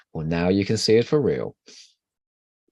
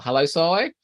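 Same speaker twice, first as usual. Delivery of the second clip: cheery greeting; 6 semitones higher, 4 dB louder than usual. Real, not acted. Greeting a new chat joiner.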